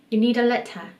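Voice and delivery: Kiwi English, letter as leta; New Zealand accent. Shown as a demonstration. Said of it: "여러분은 알아들을 수 있는지 한번 들어보세요".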